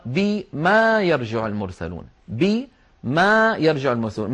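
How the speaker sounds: slow بما, bi then a long maa; بما drawn out as bi-maa; underlying form with alif. Shown as a demonstration. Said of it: "هذه أصلها".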